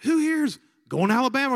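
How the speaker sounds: loud, high announcer call; rally the room like a hype man; mock emcee shout to the students; calling out to a crowd. Speaker calling out to the gym.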